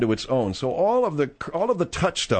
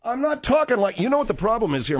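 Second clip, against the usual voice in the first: shrill overlapping reality fight; 8 semitones higher than usual. Acted. Host fires back in quarrel.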